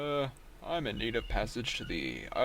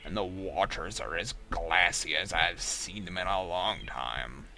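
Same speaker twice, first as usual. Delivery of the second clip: put-on cheerful old sea captain; crusty pirate voice. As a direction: sailor reading the weather, hopeful. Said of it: "do you like my crusty pirate voice".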